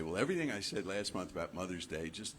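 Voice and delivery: breezy, dismissive mock remark; glib. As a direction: toss it off glibly. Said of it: "started to be real glib and say".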